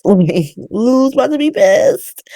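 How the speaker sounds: laughing repeat. Real, not acted.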